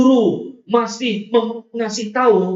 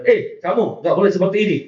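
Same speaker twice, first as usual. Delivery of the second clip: firm teacher; faster than usual. Retold or imitated. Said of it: "guru ini tegas ngasih tahu".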